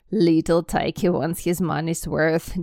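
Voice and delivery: father beaming at his greedy son; proud chuckling father. Acted. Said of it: "Uncle Vernon chuckled".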